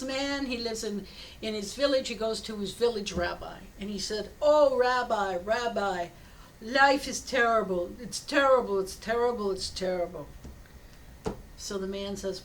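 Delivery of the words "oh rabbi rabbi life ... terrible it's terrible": mock wailing complaint, starts loud and sinks; acted lament. Villager pouring out misery to his rabbi, acted lament. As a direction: lament like a put-upon villager, hammed up.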